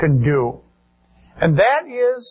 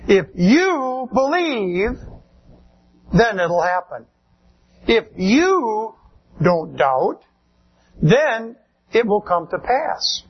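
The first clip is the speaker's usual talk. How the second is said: imitating a preacher. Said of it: "when we hear preachers say".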